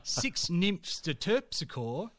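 slow, amused reading through laughter; laughing while reading. Real, not acted. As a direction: chuckle as you read.

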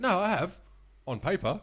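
high, loud protest; acted earnest insistence. Weirdo insisting to supervisor he found Atlantis, acted indignant insistence.

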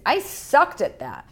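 slow, drawn-out New York attitude; a light American twang, proud of failing; American accent. Retold or imitated. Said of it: "I'm not even doing American accent".

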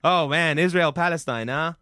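lightly voiced hacky stand-up comic; Dave Kerry. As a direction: work the club crowd like a local comedian. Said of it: "Local comedian Dave Kerry".

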